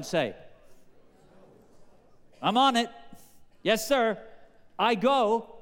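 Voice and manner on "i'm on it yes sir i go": eager yes. Acted. Eager younger son answers father.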